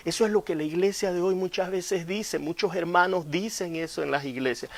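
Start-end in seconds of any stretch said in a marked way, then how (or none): none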